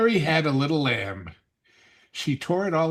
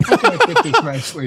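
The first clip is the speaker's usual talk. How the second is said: put-on voice; 12 semitones higher, 7 dB louder than usual. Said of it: "Why are you talking like this?".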